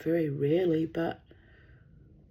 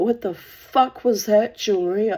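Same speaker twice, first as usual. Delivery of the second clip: mock outraged yell; 4 semitones higher, 9 dB louder than usual. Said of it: "I went".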